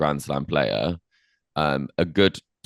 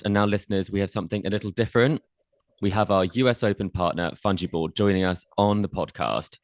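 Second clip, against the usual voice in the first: ad read; 2 semitones higher than usual. Acted. Host introduces the sponsor to listeners, a light ad-read voice. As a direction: introduce the partner like a polished ad spot.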